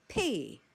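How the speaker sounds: just breathe the letter "P."; whispered P sound. Shown as a demonstration. Teacher showing learners how final b sounds. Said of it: "pronounced as".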